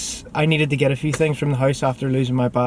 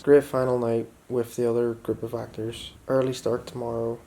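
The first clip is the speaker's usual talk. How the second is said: hushed late-night whisper; 3 semitones lower, 10 dB quieter than usual. Real, not acted. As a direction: whisper so you don't wake anyone. Late night, camera dying, others sleeping.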